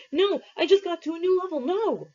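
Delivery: high, loud, fast wail of protest; a kid howling at being dragged from his game; a boy screaming as he's pulled away from the game; shout. Acted. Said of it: "he shouted".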